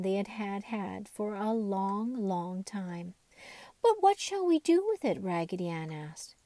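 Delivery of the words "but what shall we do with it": puzzled question. Acted. Raggedy Ann's puzzled question.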